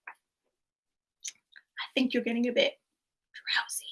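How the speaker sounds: slow drowsy voice trailing into a whisper; sleepy hypnotic read. Shown as a demonstration. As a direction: lull them to sleep on the last word. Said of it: "Quote number one is".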